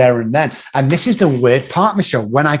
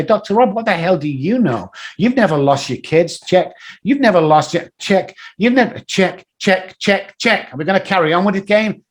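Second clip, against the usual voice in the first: mock challenger; 4 semitones higher than usual. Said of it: "people come up and say".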